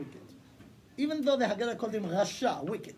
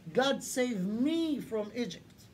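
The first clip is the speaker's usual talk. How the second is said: "me" drawn out slowly for emphasis; stress on me; slower than usual. Shown as a demonstration. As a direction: lean on "me" in a slow, deliberate line. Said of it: "I'll emphasize the me".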